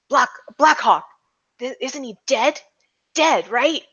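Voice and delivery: hesitant, lightly acted disbelief; a touch of doubt, stumbling over the name; startled cops. Cops murmuring to each other about Blackhawk, mildly disbelieving. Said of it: "start calling you by, uh, saying".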